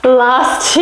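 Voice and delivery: breathless counting; puffing between words; out of breath. Real, not acted. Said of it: "You can hear I'm running out of breath".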